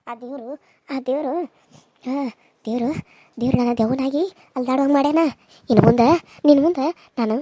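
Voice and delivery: a hint of a mournful ghost mother; lightly voiced dead mother consoling her daughter; ದೆವ್ವದ ತಾಯಿಯ ಧ್ವನಿ; mother's ghost.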